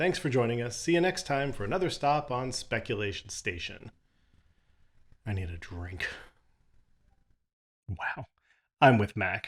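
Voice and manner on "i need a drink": muttered under the breath, much quieter and lower. The host signing off the show adds an aside, muttered.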